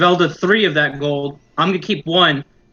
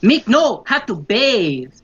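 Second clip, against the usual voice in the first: much higher, slow, squeaky goblin pleading; 9 semitones higher, slower than usual. Acted. Goblin warning the bar patron in a squeaky voice. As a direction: squeak it out like a frantic little goblin. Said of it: "Meek goes".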